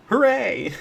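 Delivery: high, bright cheering; excited cheer. Real, not acted. Celebrating dragon kill.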